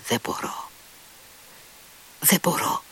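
faint, broken, tormented whisper; barely able to get it out. A narrator's reading. Grushenka cannot dance, tormented and faint. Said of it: "με μια βασανισμένη φωνή".

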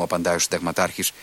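ordinary delivery, nothing marked

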